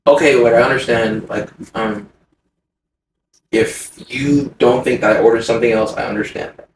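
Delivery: low, measured, conceding politely; patient and polite. Retold or imitated. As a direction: concede gently with hesitant pauses. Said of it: "I'm very patient and I'm very polite".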